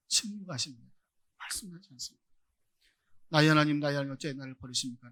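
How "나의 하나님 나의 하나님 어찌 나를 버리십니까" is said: a sudden loud outcry that settles back; retold cry from the cross. Preacher voicing Jesus crying out on the cross, mock loud cry. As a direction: cry out the first words, then ease down. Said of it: "십자가 위에서 울부짖어도".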